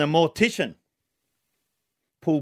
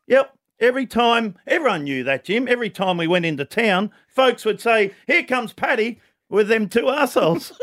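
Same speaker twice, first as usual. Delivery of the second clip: put-on Irish accent; 5 semitones higher than usual. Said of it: "tell the whole joke in an Irish accent".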